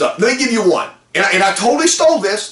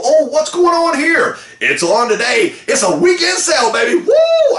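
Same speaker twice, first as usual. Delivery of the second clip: hyped customer; 8 semitones higher than usual. Retold or imitated. Customer arriving at the weekend sale, shouting excitedly. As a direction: play the customer getting swept into the sale, ending in a yell. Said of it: "they go".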